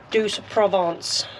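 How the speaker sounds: slow, plummy upper-class pronunciation; posh voice. Pretend. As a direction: drawl the name like a posh gardener. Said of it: "in a posh voice".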